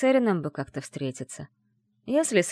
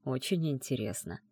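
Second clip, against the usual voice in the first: "очень" said softer, low and falling; quiet musing; 3 semitones lower, 6 dB quieter than usual. Acted. Heroine murmurs the phrase back to herself, softer. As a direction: murmur "очень интересно" softly, thinking it over.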